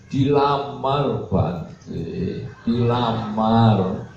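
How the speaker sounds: very slow, drawn-out mock weeping; imitated tearful parent. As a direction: stretch each phrase like a weepy parent breaking news. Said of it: "nangis-nangis".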